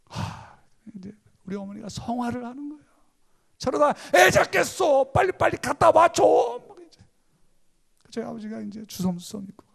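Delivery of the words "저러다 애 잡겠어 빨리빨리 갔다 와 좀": high, loud frantic yell; mother's shout. Retold or imitated. Mother yelling at father to fetch the acupuncturist, high and loud. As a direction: scream at him to hurry, the baby is dying.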